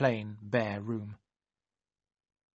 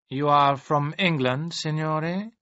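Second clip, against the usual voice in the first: slow, careful question to a stranger; asked slowly; 4 semitones higher, 5 dB louder, slower than usual. Acted. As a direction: take your time, weigh each word. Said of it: "the man asked slowly".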